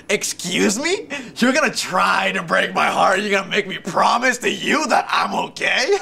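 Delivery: slow, indignant half-shout with a laugh; mock outrage. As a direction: play the wounded victim, overdone. Outraged retort to her "promise?.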